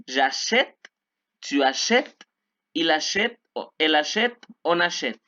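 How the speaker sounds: "achète" as a-SHET, open E, final T sounded; careful teacher's "achète", ending in a crisp T; French pronunciation demo. Shown as a demonstration. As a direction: model "achète" clearly, take by take. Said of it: "Vean la pronunciación".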